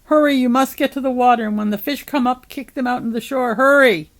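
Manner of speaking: high, loud, fast commands; frantic quick-fire urging; urgent shouted orders. A narrator's reading. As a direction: rush the instructions out, ending on a shout. Head shouts urgent orders to Noah.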